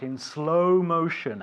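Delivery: slow, drawn-out teaching delivery; slow motion. Shown as a demonstration. Teacher confirms pupil's repetition, in slow motion. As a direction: lengthen the vowels for clarity. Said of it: "I will say things in slow motion".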